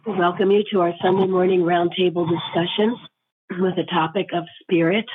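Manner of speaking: thin squeaky voice from a sore throat. Real, not acted. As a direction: speak through a squeaky, strained throat. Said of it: "excuse my squeaky voice".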